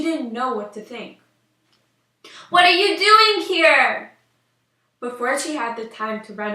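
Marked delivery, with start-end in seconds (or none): 2.5-4.1 high, loud and slow, caught off guard; startled cry. Acted. Princess startled to find a witch in her room, loud frightened cry. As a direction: gasp it out at the intruder.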